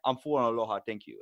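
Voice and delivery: put-on quick, light Hawaiian Pidgin accent. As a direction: answer in a hint of Hawaiian Pidgin. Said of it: "they have an accent called Pidgin".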